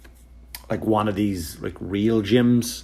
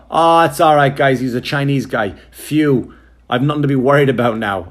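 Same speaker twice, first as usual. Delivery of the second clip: loud, hammed-up relieved sigh; mock relief; 3 semitones higher, 5 dB louder than usual. Guest walking into the room in mock relief. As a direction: pretend to be hugely relieved. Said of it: "I'm gonna walk in and go".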